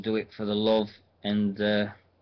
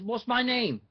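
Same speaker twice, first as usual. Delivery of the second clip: Styx taunt; 12 semitones higher than usual. Retold or imitated. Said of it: "He says".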